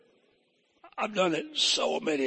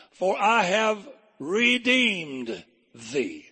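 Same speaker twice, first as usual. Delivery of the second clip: preaching scripture; 2 semitones higher, much slower than usual. Acted. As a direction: read like a preacher lingering on each phrase. Reads Isaiah with preaching cadence.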